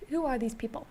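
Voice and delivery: stiff monotone robot delivery. Real, not acted. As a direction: speak like a flat robot. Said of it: "Why are you talking like a robot?".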